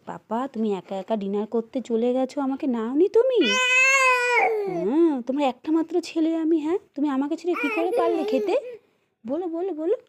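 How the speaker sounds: put-on high, whiny child complaining to papa; sulky child complaint. Shown as a demonstration. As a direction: act out a hurt little boy scolding his father. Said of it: "এরম করে পাপাকে বলবা".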